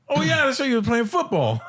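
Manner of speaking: high, animated mock recollection; retold sudden realisation. Comic replays remembering Ray's football career, high animated realisation. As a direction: act out it suddenly dawning on you.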